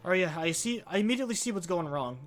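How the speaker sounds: ordinary talk, nothing marked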